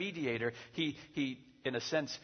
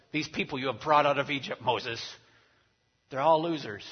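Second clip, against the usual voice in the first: exasperated God; 2 semitones higher, 7 dB louder than usual. Acted. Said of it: "God says".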